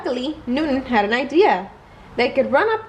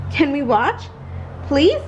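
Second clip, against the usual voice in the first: bright, pleading please that rises at the end; begging to be allowed to watch; pleading kid; 2 semitones higher than usual. Acted. Amaya begging Newton to let her watch, pleading.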